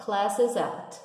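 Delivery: "classes at" run into one unit; linked demo. Shown as a demonstration. Teacher repeats the linking for students. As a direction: say it as one word. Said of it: "vão virar uma coisa só".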